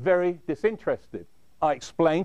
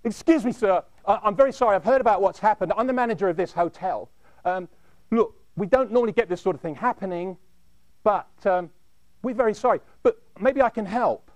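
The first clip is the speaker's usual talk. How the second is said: nervous manager; 3 semitones higher than usual. Retold or imitated. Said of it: "he had a very nervous disposition".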